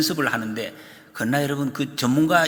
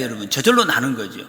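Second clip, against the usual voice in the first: ordinary delivery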